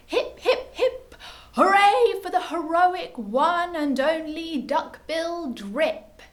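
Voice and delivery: high, loud hooted cheer; happy hooting. A narrator's reading. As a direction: cheer a hero with joyful hoots. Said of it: "the duckbills hooted happily".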